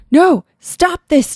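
high, slow acted call. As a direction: call out to halt it. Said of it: "Tony called".

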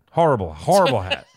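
laughing. Real, not acted. Laughing at hat.

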